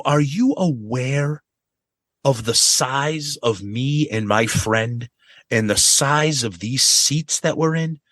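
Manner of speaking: slow and deliberate, indignant; slow, pointed question. Retold or imitated. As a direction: spell it out slowly, annoyed. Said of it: "I go".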